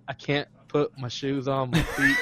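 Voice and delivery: half-shouted and laughing. Retold or imitated. Drunk friend telling James he can't manage his shoes, laughing shout. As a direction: blurt it out through laughter.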